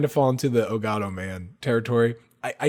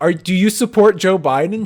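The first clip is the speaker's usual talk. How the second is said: high, loud, full-tilt scream; 8 semitones higher, 8 dB louder than usual. Retelling a stranger's question: imitating someone scream-asking. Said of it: "She scream asked".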